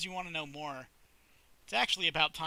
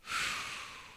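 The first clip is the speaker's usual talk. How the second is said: dramatic sigh; 4 dB quieter than usual. Acted. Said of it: "Sally sighs dramatically".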